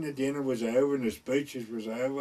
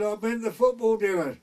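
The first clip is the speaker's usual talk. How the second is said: put-on drunken answer; 8 semitones higher, 6 dB louder than usual.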